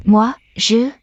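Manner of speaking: breathless unvoiced whisper. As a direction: whisper it, shaken. Cornered woman, faltering.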